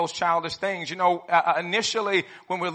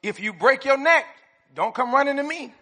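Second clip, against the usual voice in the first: loud, higher mock dad scolding; booming tipsy uncle; 6 semitones higher, 4 dB louder than usual. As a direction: boom it out like a grumpy dad. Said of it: "I heard this one growing up".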